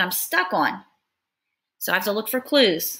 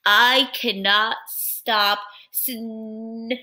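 whispered near sneeze; much slower than usual. Acted. Character about to sneeze.

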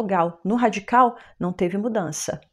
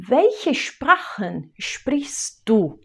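slow, clear question; slow question to viewer; much slower than usual. Shown as a demonstration. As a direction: ask the viewer slowly and clearly. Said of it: "eu tenho uma pergunta pra você".

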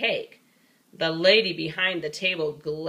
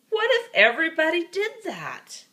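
higher, scolding teacher voice; a higher-voiced teacher scolding the snowball thrower; 9 semitones higher, 3 dB louder than usual. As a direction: scold the child by the wall.

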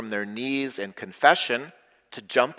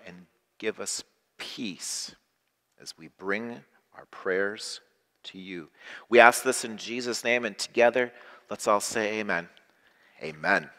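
prayer. Acted. Closing prayer to congregation.

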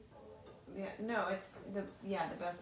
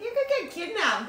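high, louder mock warning; retold alarmed warning; 11 semitones higher, 7 dB louder than usual. Actress retelling her reaction to the risky plot, mock-alarmed. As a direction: pitch it up like a worried friend's warning.

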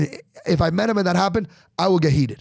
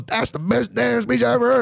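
Trump fan voice; 7 semitones higher than usual. Retold or imitated. The fan voice again.

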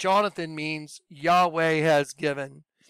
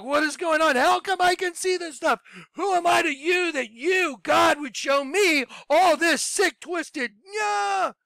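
much higher, shouting up at the ceiling; freaking out; 10 semitones higher than usual. Retold or imitated. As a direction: scream at God in a full meltdown. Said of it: "I freaked out. I had a meltdown".

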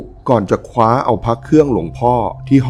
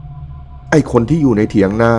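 a raised, higher call out to the hut; challenging call; 3 semitones higher, slower than usual. Acted. Wife shouting at the voice in the hut, raised and challenging.

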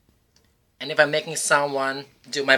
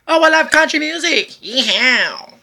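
fast, much higher and louder, whoop at the end; country whoop; 10 semitones higher, 6 dB louder than usual. Acted. Host hyping a country music singer with a loud whoop. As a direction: hype the crowd with a yeehaw.

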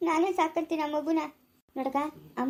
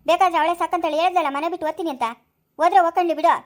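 louder, brushing her off; angry dismissal; 6 dB louder, faster than usual. Acted. Relative dismissing the woman in the quarrel, angry and louder. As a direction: let her go, I don't care.

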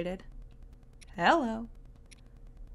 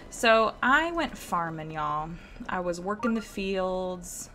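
put-on Southern accent; 4 dB louder, slower than usual. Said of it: "the southern accent that I'm doing".

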